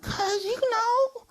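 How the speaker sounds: slow, drawn-out dummy voice; slow puppet voice. Acted. Dummy answering the performer, in a slow puppet voice. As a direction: take your time as the sassy dummy.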